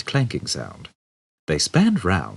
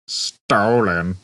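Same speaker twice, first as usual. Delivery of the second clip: mimicking; 2 semitones higher than usual. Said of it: "mimicked Marvin".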